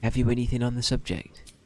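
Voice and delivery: put-on generic halfling in West Country accent; a lightly done West Country voice. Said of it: "why you're doing the West Country accent".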